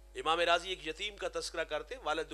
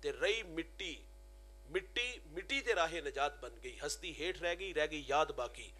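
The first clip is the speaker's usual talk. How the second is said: poem recitation. Acted. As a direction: let each line of the verse hang. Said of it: "اور آپ فرماتے ہیں".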